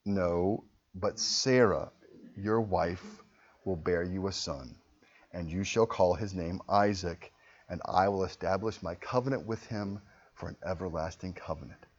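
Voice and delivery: lightly voiced steady God; calm God. God answering Abraham, soft low calm reply. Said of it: "And God says".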